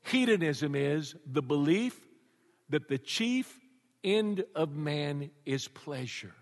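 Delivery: slow, flat machine-like reading; Siri's answer. Retold or imitated. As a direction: read it like a phone assistant, slowly. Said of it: "You know what it would say".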